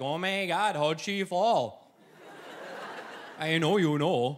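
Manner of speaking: put-on Wisconsin accent, slow and drawling. Retelling how relatives questioned the speaker about a fall, in a Wisconsin accent. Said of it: "in their little Wisconsin accents".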